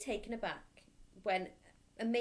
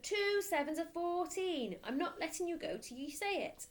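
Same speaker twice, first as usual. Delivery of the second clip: mild bellow; 10 semitones higher than usual. Acted. Headmistress demanding the answer, a mild bellow. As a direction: hammer the sum home.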